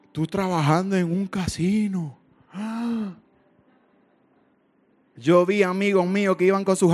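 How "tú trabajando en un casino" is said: drawn-out imitated disbelief, ending in a gasp; mildly scandalized, with a gasp; mock shock. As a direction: act out a scandalized onlooker, slowly. Acts out shocked people's reaction.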